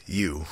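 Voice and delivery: "You" said alone, hit hard as its own word; emphasis on you. Shown as a demonstration. Quoting the game's warning to viewers, stressing "You". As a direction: lean into "You", make it the point. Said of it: "Emphasis on fucking you".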